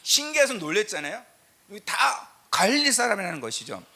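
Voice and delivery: loud, high preaching voice driving the point home; full-force preaching. Acted. A pastor preaching to his congregation at full force.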